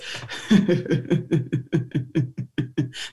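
low forced laugh pushing through hurt; laughing through pain. Shown as a demonstration. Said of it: "it might start off a little something like this".

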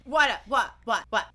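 mock innocent repeated what; a suspect feigning confusion; playing dumb. Cohost mocking a guilty subject, feigned confusion. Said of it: "That's how they act".

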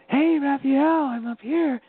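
high, loud cheerful call from afar. Retold or imitated. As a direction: holler down to get a friend's attention. Calls down to Raphael from above.

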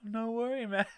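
high, put-on dude voice; retold boyfriend reply. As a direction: jump up high, imitating a won-over boyfriend. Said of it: "And he's like".

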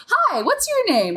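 high, slow, bubbly hello to a stranger; Agatha's cheery greeting. Retold or imitated. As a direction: chirp it like an eager ditzy monk. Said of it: "her go-to thing is".

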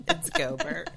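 "Gobert" read as spelled, GO-bert; "Gobert" pronounced exactly as written; spelled-out pronunciation. Shown as a demonstration. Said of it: "Just by reading it".

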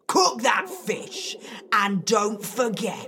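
loud spirit monster command; gruff monster order. Acted.

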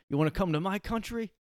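high-pitched mock challenge; Zelensky. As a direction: tease out a high, taunting question. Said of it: "I am Zelensky".

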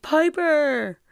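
calling out. Retold or imitated. Brothers calling sister from couch.

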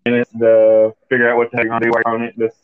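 glitchy robotic audio; choppy, robot-like bad connection. Real, not acted. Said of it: "Does he sound like a robot to anybody else?".

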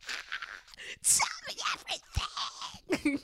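high whispered squeal, slow; high breathy eager gossip; excited squeal. Retold or imitated.

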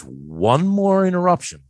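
stern dad warning. Retold or imitated. Stern dad warning his son.

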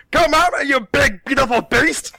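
high, loud, theatrical yell; yelled challenge. Retold or imitated. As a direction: bellow a comic battle taunt. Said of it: "and Skirta yells".

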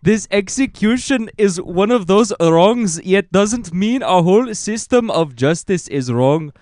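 Avatar-style solemn voice. Retold or imitated. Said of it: "Now you sound like one of the Avatar".

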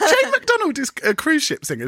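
high-pitched, laughing exclamation; laughing outburst. Real, not acted. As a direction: blurt it out through laughter. Laughing over the singer's name.

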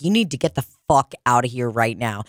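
low, stern order; very serious bartender. Retold or imitated. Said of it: "bartenders that are very serious".

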